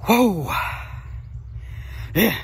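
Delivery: high, loud burst of delight; excited whoa. Real, not acted. Angler watching his catch swim off, excited shout. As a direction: let out a big whoop. Fish slips back into water.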